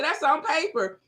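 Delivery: high-pitched mock comeback; acted-out squabbling reply; dismissive retort. Acts out her comeback.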